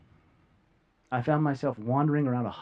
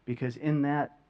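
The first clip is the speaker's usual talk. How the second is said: ordinary talk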